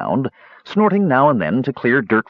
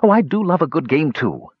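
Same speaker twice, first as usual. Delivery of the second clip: higher, a touch of gleeful echo; the sidekick happily parroting his leader; eager Talaran; 6 semitones higher than usual. Acted. Talaran echoes Cronin's delight, mildly gleeful. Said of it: "he said".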